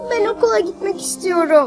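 tearful sobbing. A girl, asked by an adult why she is crying, answers: crying. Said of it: "niye ağlıyorsun sen?".

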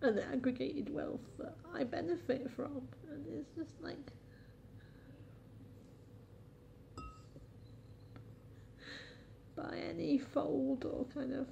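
tearful.

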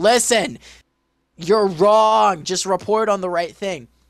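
shouting, slowed down. Retelling how they reacted to a broadcast, reenacting yelling at the screen. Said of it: "I'm yelling at the screen".

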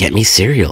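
loud, really nasty, rude, mean tone. Retelling asking mom for cereal at nine years old, retelling a really nasty voice. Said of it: "just a really nasty voice".

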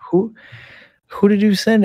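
high, startled voice.

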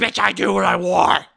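very loud, raspy, rough, high-pitched yell. Acting out a scene where the character yells at a fake character: Cell yelling. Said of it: "and then yells at them".

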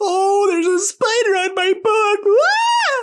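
frightened, loud, very high, rising cry. In a lesson on exclamatory sentences, a speaker gives an example, scared and loud. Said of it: "or scared".

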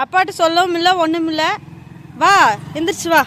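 high, loud, coaxing call.

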